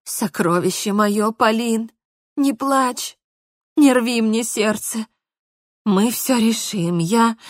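put-on calm her like a child; tender soothing. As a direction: Mark gently comforting crying Polina. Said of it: "очень нежно ... успокаивал как маленькую".

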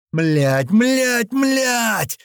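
выше, в отчаянии; ругается от ужаса на бегу; паническая ругань. A narrator's reading. Паника под выстрелами на бегу. (паническая ругань)

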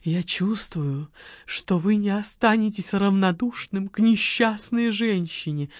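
low, slow seductive coo; a hint of sultry cooing. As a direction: purr it to lure him in. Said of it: "проворковала низким, волнующим голосом".

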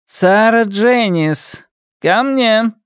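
slow, high, commanding summons; harsh, cold command. A narrator's reading. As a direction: order her in, cold and firm. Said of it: "жёсткий, холодный голос".

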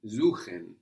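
"Suchen" begins with a voiced Z, zoo-khen; German S as Z. Shown as a demonstration. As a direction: buzz the S of "Suchen" like a Z. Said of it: "So an S vowel syllable gives us a Z sound".

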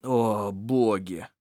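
slow, low groan of despair. Acted. Sarmik groaning in despair, slow and low. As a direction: moan it hopelessly. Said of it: "простонал Сармик".

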